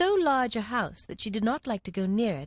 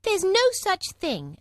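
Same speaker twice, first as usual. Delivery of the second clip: loud, slow indignant protest; angrily; 11 semitones higher, 5 dB louder, slower than usual. A narrator's reading. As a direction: protest hotly. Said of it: "very angrily".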